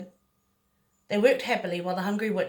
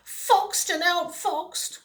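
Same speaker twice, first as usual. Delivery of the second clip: sighing; 9 semitones higher, much slower than usual. A narrator's reading. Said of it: "sighed the witch".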